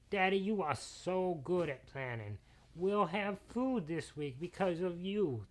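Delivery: sweet little daughter admiring her daddy; grateful daughter. Acted. Daughter thanking her daddy for the food, gushing.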